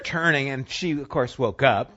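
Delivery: ordinary talk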